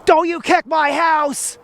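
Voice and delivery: high, drawn-out imitation of a screaming neighbor; put-on high yell, stretching the words; mock screaming mother. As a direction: mimic her yelling, slow and high-pitched without real volume. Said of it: "she screams at her kid".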